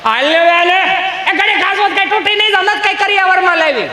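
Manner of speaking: high mock wife scolding. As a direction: nag like an annoyed wife.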